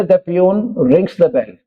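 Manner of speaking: very slow, word by word; slow classroom dictation. Shown as a demonstration. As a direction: read it out slowly for students to follow. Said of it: "Example है".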